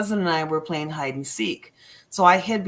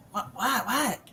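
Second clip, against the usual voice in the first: high, hushed "what?" repeated; alarmed questioning; 5 semitones higher, 4 dB quieter than usual. Retold or imitated. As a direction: re-enact a startled question under your breath. Acting out her startled reply in the tent.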